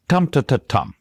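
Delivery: "tum ta ta tum", stressed at both ends; quick rhythm. Shown as a demonstration. Author taps out Westminster Bridge, quick rhythm. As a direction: hurry the two "ta"s between the "tum"s. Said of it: "really quite fast".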